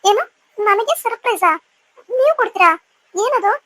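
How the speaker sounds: can't believe he has a surprise for her; surprised. Acted. Wife asking her husband about his surprise, surprised and delighted.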